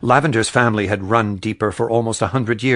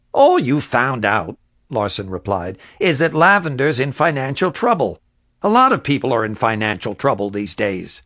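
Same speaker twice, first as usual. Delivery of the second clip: dismissive official; 3 semitones higher, 3 dB louder than usual. Acted. Larson replies dismissively.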